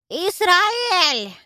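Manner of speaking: high, loud crone's yell; shrill-free loud old granny shout; old woman's yell. Acted. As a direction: holler like a hunched old granny. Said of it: "заорала я старческим голосом".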